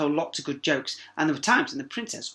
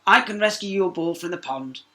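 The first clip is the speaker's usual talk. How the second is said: lightly voiced frog, a bit higher; 5 semitones higher, 7 dB louder than usual. A narrator's reading. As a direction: offer help as the eager frog. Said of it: "answered the frog".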